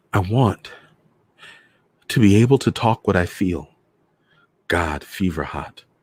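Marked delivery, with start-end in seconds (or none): 0.1-3.7 voice quivering, quaking and trembling. Reading a novel aloud, voicing a woman's line: quaking voice. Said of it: "her voice quaking".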